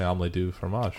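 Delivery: telling a friend what to say to ladies, in a soft mock French accent; mock French pickup line. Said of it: "just say".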